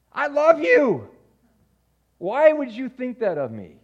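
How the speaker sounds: high, loud offended disbelief; a dad stung that his son doubted him; insulted father. Retold or imitated. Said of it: "I would feel insulted".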